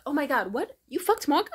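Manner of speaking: imitating the friend's shriek of shock, high and loud; shocked disbelief. Friend learns who she slept with, shrieks in shock. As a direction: blurt it out in stunned horror.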